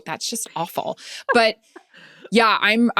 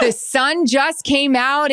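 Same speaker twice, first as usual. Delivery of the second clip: higher and slow, half-shouted announcement; big on-air reveal; 5 semitones higher, slower than usual. Retold or imitated. Reporter reenacting her live hit to viewers, slow excited announcement. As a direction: land the reveal like it's live TV.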